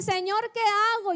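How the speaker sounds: desperate prayer; anguished cry. Retold or imitated. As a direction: cry out Señor, qué hago to God. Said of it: "Le dije".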